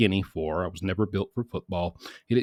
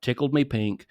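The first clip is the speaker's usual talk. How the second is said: imitating dad's catchphrases; 7 semitones higher, 5 dB louder than usual. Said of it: "it would say".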